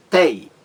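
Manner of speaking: short, emphatic, separate "Tei"; stressed syllable shown. Shown as a demonstration. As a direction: hit "Tei" as the strong syllable. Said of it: "É a mais forte".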